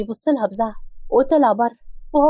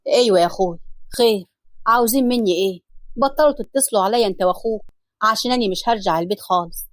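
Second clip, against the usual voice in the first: a lightly lowered, weary man's voice; Hassan's lowered voice; 3 semitones lower than usual. Acted. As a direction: speak low as the grieving husband.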